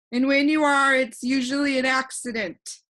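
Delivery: put-on a cheerful know-it-all boy floating in the air; voiced boy Alec. Alec teasing humbug.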